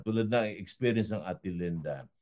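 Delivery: slowing program-host outro over music; host closing the program for listeners, sign-off voice; radio sign-off. Acted. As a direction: close the show gently like a broadcast host. Host's closing words over music.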